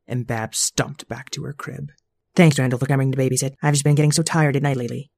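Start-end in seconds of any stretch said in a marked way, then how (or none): 2.3-5.1 a lightly voiced weary mother, fast; tired mom. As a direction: rush the thanks like a worn-out mom. Mom thanks babysitter.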